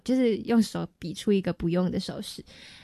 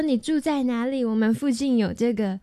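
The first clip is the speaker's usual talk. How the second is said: lightly imitating a foreigner's Mandarin; a hint of foreign accent in Mandarin. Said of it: "还要学人家口音欸".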